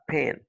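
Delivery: "pan" said alone as the stressed syllable. Shown as a demonstration. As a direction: give "pan" its full English vowel. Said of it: "c'est sur la deuxième syllabe".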